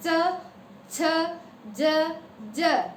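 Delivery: च, छ, जय sounded one by one; sound demo. Shown as a demonstration. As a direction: say च छ ज separately. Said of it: "बोल के देखो".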